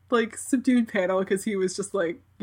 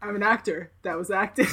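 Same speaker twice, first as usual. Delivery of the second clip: flat, dry, unbothered; deadpan. Retold or imitated. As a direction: deliver it bone-dry. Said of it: "he's, like, deadpan".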